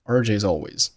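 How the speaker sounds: R J's always joined with no gap; R J's always as "R J-zalways"; linked words. Shown as a demonstration. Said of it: "R J's和always辅元连读".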